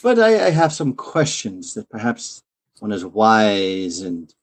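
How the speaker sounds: charming nobleman. Acted. Player voices noble character.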